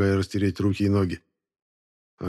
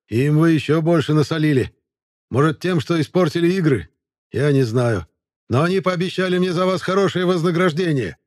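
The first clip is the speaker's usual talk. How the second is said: shrill, piping voice, much higher; high squeaky voice; 8 semitones higher, 5 dB louder than usual. Acted. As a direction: squeak it out like a eunuch. Sermet's voice again.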